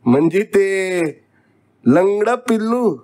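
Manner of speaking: high, teasing father's question; amused, laughing question. A narrator's reading. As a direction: ask with amusement rising in the voice. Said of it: "दादांनी हसत हसतच विचारलं".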